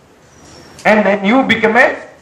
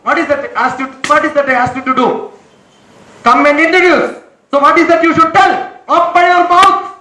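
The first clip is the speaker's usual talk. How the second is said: raised, insistent scolding voice; 3 semitones higher than usual. Real, not acted. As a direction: press them hard for an answer. Teacher scolding, demanding answer.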